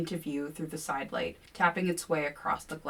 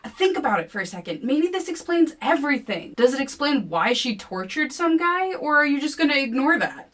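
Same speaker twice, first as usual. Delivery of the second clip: much higher, louder challenge; heated argument; 9 semitones higher, 8 dB louder than usual. A narrator's reading. Kevin challenging William, high and loud. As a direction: argue him down.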